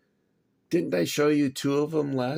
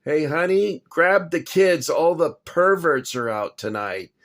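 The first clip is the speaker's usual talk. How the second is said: mock alarmed shout; 4 semitones higher, 5 dB louder than usual. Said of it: "this guy says to his wife".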